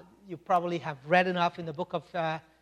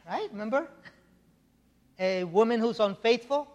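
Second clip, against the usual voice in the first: usual speaking voice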